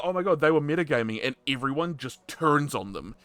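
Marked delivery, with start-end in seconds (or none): 0.0-1.2 fast, higher, louder mock outrage; mocking accuser. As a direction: ham up the gossiping accuser. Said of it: "they'd say, like".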